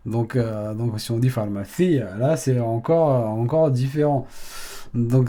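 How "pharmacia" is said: pharmacia with the weight on "ci"; stress on I. Shown as a demonstration. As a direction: say pharmacia as far-ma-SI-a. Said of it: "un accent sur le I".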